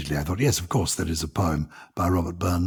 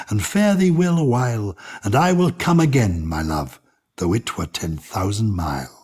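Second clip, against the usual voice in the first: poem reading. Acted. Host reading Burns poem to co-host, tender recital. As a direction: read it like a fond love letter. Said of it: "I'm going to read it with my English accent".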